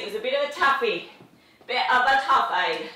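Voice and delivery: a mock English accent on toughie. Trainer jokes to viewers in a mock English accent. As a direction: put on a jokey English accent. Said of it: "It's my English accent".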